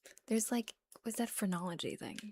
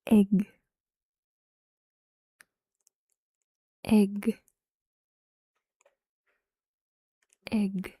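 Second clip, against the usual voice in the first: loud egg; 11 dB louder, much slower than usual. Shown as a demonstration. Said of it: "Just the word egg".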